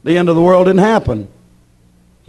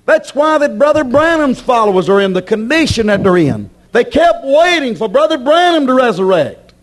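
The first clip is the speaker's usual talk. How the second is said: raised, insistent pulpit voice; emphatic preaching; 6 semitones higher than usual. Acted. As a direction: press the point home to the congregation.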